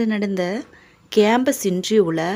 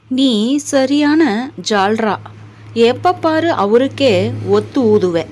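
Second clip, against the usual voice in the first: lightly acted taunt; mild scolding; 2 semitones higher than usual. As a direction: accuse with a mild, pushed-up emphasis. Child scolds mother for siding.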